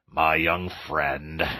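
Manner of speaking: very slow, grave address; stern elder, weighing each word; great severity. Acted. Badger rebukes Toad, very slow and grave. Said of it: "said the Badger with great severity".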